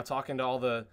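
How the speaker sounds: ordinary delivery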